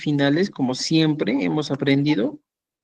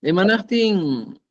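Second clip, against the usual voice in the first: Imanachtin drawn out slowly, each syllable spaced, pitched a little higher; slow and clear; 4 semitones higher, slower than usual. Shown as a demonstration. Teacher modelling Imanachtin for students, slow and careful. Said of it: "Imanachtin ya sabemos cómo se responde".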